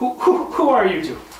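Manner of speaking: frantic, high, loud panicked voice.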